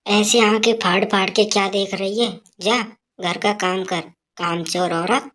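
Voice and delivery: put-on a scolding old woman calling for her tea; mother-in-law shouting for her tea, scolding; nagging mother-in-law. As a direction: bark for the daughter-in-law.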